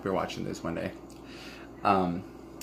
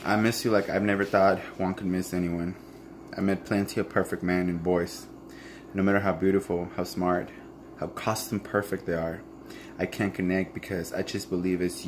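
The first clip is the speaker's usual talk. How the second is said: reading a letter. Acted. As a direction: read it like a private love letter. Reads her letter aloud.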